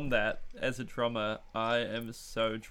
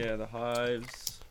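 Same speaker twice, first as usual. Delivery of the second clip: talking while chewing ice; words around crunching ice; mouth full of ice; much slower than usual. Real, not acted. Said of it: "Sorry, I'm chewing ice".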